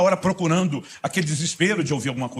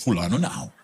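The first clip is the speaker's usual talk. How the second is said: stubborn refusal; 6 semitones lower than usual. Retold or imitated. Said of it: "Aí você diz".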